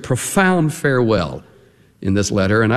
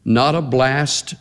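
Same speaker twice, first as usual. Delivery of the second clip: recited hymn. Retold or imitated. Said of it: "Remember the second stanza?".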